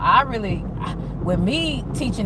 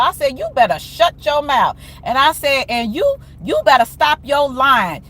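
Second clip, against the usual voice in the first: heated scolding; 4 semitones higher than usual. Retold or imitated. Retold heated argument with kids.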